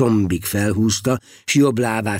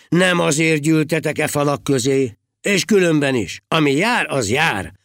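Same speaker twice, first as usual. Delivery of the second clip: mildly preachy, higher-pitched protest; preaching; 3 semitones higher than usual. A narrator's reading. Heribald to the working monks, preaching. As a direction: lecture them righteously, lightly acted. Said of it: "prédikált Heribald".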